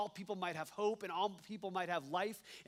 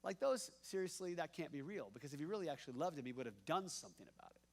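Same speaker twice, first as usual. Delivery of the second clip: sceptical onlooker; faster than usual. Retold or imitated. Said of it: "other people were like".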